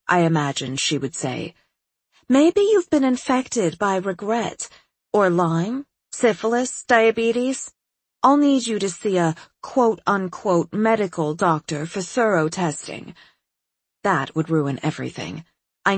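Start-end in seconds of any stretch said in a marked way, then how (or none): 2.3-13.1 higher, breezy, self-assured psychiatrist; eccentric doctor voice. Acted. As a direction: play her as a cheerfully odd doctor. Doctor lists diseases.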